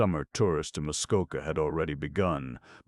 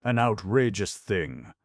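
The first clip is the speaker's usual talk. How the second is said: outraged repeat; 5 semitones higher, 6 dB louder than usual. A narrator's reading. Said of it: "which relieved his feelings".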